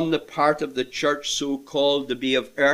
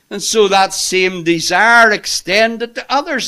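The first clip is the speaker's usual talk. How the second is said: raised, fervent sermon delivery; impassioned preaching; 5 semitones higher, 4 dB louder than usual. Real, not acted. Preacher telling friends of Paul's desire for Christ, fervent. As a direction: preach it high and insistent, easing at the end.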